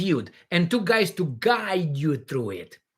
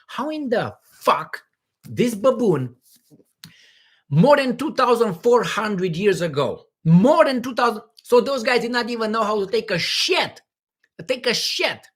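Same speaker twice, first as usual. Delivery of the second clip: mock exasperation; 3 semitones higher, 3 dB louder than usual. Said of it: "you know, you say".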